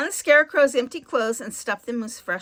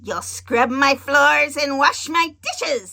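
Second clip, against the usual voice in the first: bossy witch; 3 semitones higher, 6 dB louder, slower than usual. Acted. Witch orders Dorothy.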